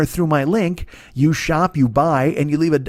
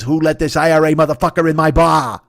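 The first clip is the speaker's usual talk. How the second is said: imitating a menacing film mob boss with a light Boston accent, louder; a hint of Boston menace, challenging a stranger; Jack Nicholson Boston accent; 3 semitones higher, 5 dB louder than usual. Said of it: "Jack Nicholson does a bad Boston accent and looks at a fucking guy and goes".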